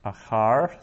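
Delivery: Achar with the stress on CHAR; stress on final syllable. Shown as a demonstration. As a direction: lean on the last syllable of Achar. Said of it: "so that's accented".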